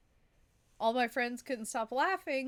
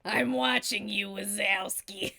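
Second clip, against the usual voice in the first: loud put-on voice, drawn out at the end; brash, drawn-out character line; Elevator Woman voice; 5 dB louder, slower than usual. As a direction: call it out slowly, stretching the name. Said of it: "do that woman's voice".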